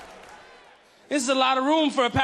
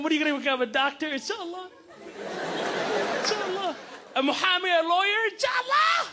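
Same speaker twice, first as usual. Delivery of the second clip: proud Arab mom; 5 semitones higher than usual. Retold or imitated. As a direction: gush over her baby son. Proud Arab mom imagines doctor son.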